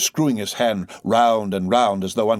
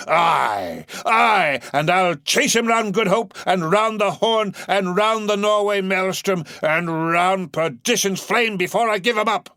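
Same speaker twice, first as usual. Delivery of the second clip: raised high, mild shouting vow; shouting oath; 11 semitones higher, 5 dB louder than usual. Acted. Captain vowing vengeance to the crew, high mild shout. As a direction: swear it to the crew, rising. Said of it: "he shouted out".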